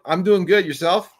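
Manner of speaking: nervous patient's reply. Retold or imitated. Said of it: "I'm like".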